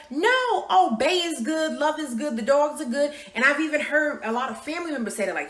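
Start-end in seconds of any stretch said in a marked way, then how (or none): 0.1-3.1 high, breezy fake-fine voice; mock cheerful denial. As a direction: brush it off like everything's perfect. Mocking people who fake being fine.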